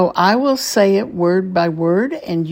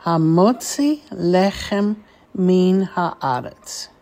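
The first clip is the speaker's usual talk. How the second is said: measured phrase, words linked with brief gaps; teacher's deliberate run-through of the whole phrase; a little more connected; slower than usual. Shown as a demonstration. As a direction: join the four words into one careful phrase. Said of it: "a little bit more quickly".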